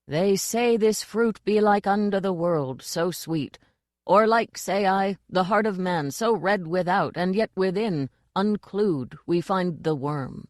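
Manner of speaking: a lightly voiced grand actor reciting the worm speech; mild theatrical declaiming of a tyrant's lines; boy imitating Vitaler. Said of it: "But he sounded just like".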